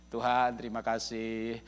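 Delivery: a soft, contented prayer of thanks; thankful prayer. Retold or imitated. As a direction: pray like someone grateful and at peace. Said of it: "Doa ucapan syukur".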